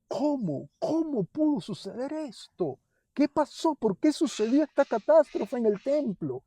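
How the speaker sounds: keening lament of Jeremiah; Jeremiah's lament. Acted. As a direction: cry out like the grieving prophet. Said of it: "decía Jeremías".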